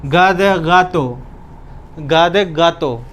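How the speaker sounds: slow, careful spelling-bee delivery; slow classroom dictation. Shown as a demonstration. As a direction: spell it out slowly for students. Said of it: "जी को बोलते हैं गा".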